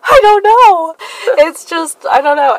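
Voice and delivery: high nervous squeak; flustered panicked girl. Retold or imitated. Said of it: "And I was like".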